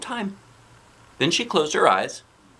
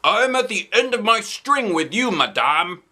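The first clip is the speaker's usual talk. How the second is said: growly; 9 semitones higher, 3 dB louder than usual. Acted. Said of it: "I made my voice very growly".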